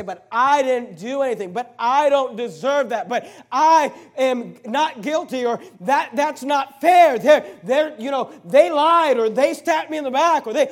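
hammed-up wronged believer shouting that it's not fair; indignant complaint. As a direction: sputter out the unfairness, getting hotter. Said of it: "you say".

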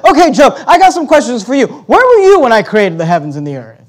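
God challenging Job. Acted. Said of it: "God shows up and says".

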